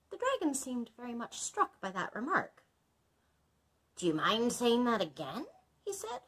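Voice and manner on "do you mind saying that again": polite. Acted. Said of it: "quite politely".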